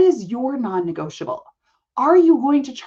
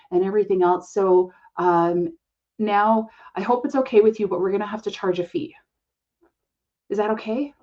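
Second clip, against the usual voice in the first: hesitant, apologetic advisor. Retold or imitated. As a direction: ask for the fee as if it were a favour. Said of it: "they're like".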